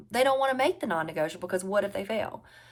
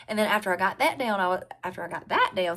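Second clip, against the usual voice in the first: slipping into a Southern accent, "down" drawn out; southern drawl. Real, not acted. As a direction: let the Southern accent creep in. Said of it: "sorry, my Southern comes out sometimes".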